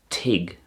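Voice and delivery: tig with a hard g ending; dialect pronunciation. Shown as a demonstration. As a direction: say tig, short vowel and hard g. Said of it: "it could be pronounced tig".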